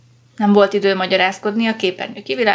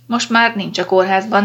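ordinary delivery, nothing marked

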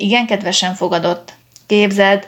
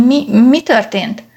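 louder, slow stammer; stammering shock; 4 semitones higher, 7 dB louder, slower than usual. A narrator's reading. Startled father stammers at the police. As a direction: stumble over the words in shock. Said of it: "dadogta újra Clermont".

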